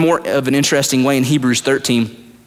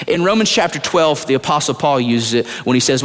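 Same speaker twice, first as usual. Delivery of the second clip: usual speaking voice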